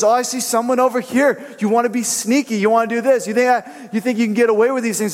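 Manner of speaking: high, lively scolding voice of the Lord; God scolding. Retold or imitated. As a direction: catch the sneaky one out, a knowing rebuke. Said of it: "He says".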